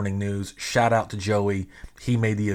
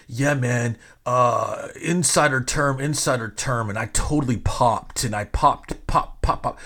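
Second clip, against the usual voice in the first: lightly mocked wrestling-fan jargon. Host mimicking fans' insider lingo, mock wrestling-fan talk. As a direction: imitate a know-it-all fan spouting insider terms. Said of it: "Why do all wrestling fans talk like this?".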